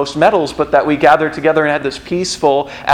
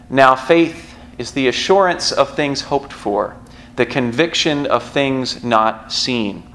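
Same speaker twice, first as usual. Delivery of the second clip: scripture reading; slower than usual. Shown as a demonstration. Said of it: "the verse we heard last week".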